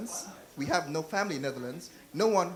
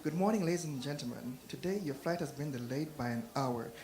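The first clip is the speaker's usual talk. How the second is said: airline announcement; 6 dB quieter than usual. Retold or imitated. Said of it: "For example".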